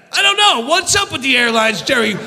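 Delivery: mock-outraged Seinfeld line. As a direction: spit it at Jerry with rage. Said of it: "I'm fucking outraged".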